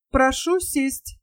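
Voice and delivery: slow, flat machine voice; dull metallic voice. Acted. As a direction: drone it like a dull robot. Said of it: "раздался тусклый металлический голос".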